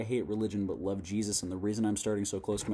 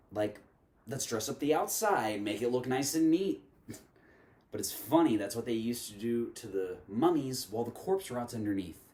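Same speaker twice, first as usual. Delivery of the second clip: measured poetic recitation with deliberate pauses; spoken word poem. Acted. Reciting a poem on religion and Jesus to viewers, spoken word delivery. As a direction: perform it line by line, leaning on the key words.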